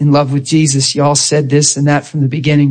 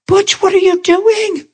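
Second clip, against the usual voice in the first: high, slow squeal of surprise; retold disbelief, way up in pitch; astonished greeting; slower than usual. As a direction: act out amazement, stretched and high. Acts out amazement at seeing coworker.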